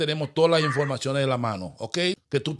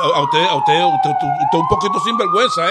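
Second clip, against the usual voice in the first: much higher, louder mock squeal of outrage; squeaky scolding; 6 dB louder than usual. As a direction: squeal it like a scandalised clerk. Fake official scolds defiant woman.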